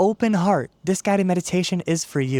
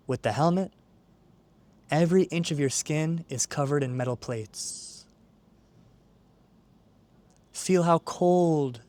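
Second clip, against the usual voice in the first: calm, measured meditation guide; guided meditation. Acted. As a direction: ease the listener into stillness, unhurried, with long pauses. Leads a guided visualization.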